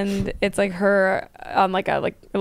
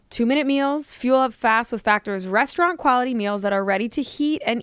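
lightly performed sponsor copy; ad read; 3 semitones higher than usual. Acted. Co-host pitching quick meals to listeners, ad read. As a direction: read it as a friendly podcast commercial.

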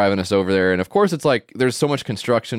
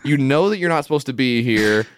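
mock aggressive attendant; 5 semitones higher than usual. Attendant accusing the cab driver, higher and scornful. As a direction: retell him jeering and pissed at once. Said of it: "so aggressive and, like, laughing at this guy, but also is pissed".

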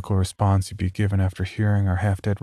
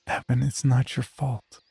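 cooing; 5 semitones higher than usual. Acted. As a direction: soothe him gently. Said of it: "She cooed".

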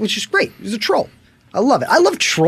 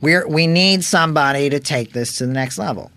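Adam Carolla impression. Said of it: "I know it's a little bit of impression".

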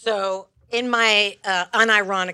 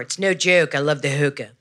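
Baltimore lady; 5 semitones lower than usual. Acted. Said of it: "the lady from Baltimore".

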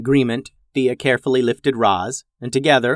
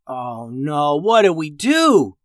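panicked; 2 semitones higher, slower than usual. Acted. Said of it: "Aubrey asked in a panic".

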